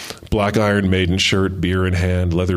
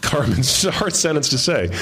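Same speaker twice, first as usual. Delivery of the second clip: amused aside; 4 semitones higher than usual. Real, not acted. Reader stumbles and laughs.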